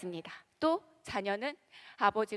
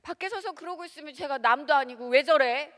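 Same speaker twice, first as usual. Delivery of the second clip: mild fretting parent; 4 semitones higher, 7 dB louder than usual. Retold or imitated. Parent fretting over child.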